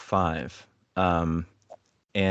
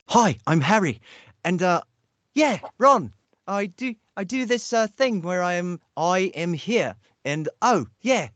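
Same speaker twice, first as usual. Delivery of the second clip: much higher, hammed-up British accent of a boy wizard; bad Daniel Radcliffe impression; 10 semitones higher than usual. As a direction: overdo a British accent, pitched way up. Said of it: "this bad Daniel, uh, Radcliffe impression".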